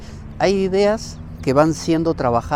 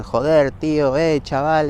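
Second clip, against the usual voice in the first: louder, jeering slang voice; tossing off street slang with a sneer; mocking Spanish slang; 3 semitones higher, 5 dB louder, slower than usual. Mocking the slang-talking Spaniard. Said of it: "esa clase de frases".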